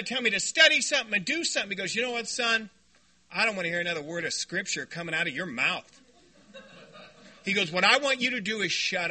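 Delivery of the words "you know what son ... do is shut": soft, gentle and kindly; nice religious way. Retold or imitated. Brother kindly telling him to shut up. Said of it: "he said it in a very nice religious way".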